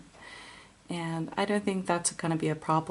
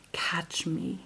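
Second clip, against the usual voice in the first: whispered; 5 dB quieter than usual. Real, not acted. Reading card name softly.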